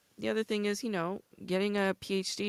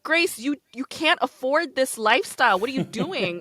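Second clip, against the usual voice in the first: louder, higher mock self-scolding; scolding myself; 8 semitones higher, 7 dB louder than usual. To herself over online shopping, a mock scold. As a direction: chide yourself for overspending. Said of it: "I'm like".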